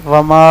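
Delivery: وما loud with a long aa; teacher repeats the right وما; correct wamaa. Shown as a demonstration. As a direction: hit وما with a long open ending. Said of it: "وما نہیں ہے".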